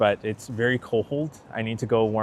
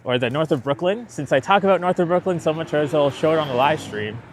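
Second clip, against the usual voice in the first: frozen lips; 4 semitones higher, 4 dB louder than usual. Real, not acted. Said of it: "my lips are frozen. That's why I sound weird".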